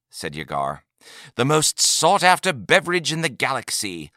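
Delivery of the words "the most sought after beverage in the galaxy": trader's pitch, a bit higher; a touch of the proud merchant; lightly voiced salesman. A narrator's reading. Trader praising the brandy to a customer, lightly voiced salesman.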